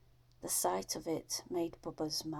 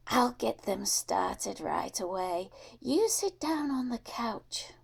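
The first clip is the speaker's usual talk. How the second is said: put-on a higher, airy old woman's welcome; sweet old lady; 4 semitones higher, 4 dB louder than usual. Old Missus Drew welcoming Bubba at her door, higher fond voice. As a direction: coo a fond greeting to the boy.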